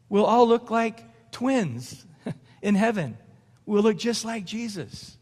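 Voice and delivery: chuckling through the line, slowed; a real laugh breaking into the words. Real, not acted. Preacher chuckles at his joke.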